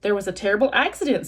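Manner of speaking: fast, chirpy robot; a touch too cheerful for bad news; robot cheerfully reporting a tragedy. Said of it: "why does your voice sound so cheerful".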